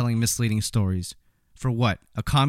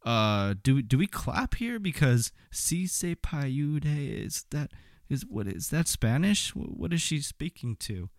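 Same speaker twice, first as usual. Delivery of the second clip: confused crowd; 3 semitones higher, 4 dB quieter, slower than usual. Retold or imitated. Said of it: "looking around like".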